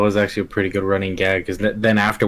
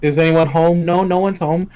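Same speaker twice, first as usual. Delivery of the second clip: higher, louder cartoon voices; Pooh and Rabbit quote; 7 semitones higher, 4 dB louder than usual. Friend acting out Rabbit's door scene, higher and louder. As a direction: pipe it up like a cartoon character. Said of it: "he's like".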